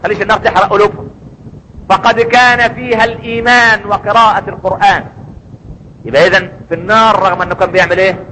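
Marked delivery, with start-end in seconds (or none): 0.0-5.0 lightly voiced divine command to the keeper of hell; voicing God's command. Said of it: "وربنا يقول".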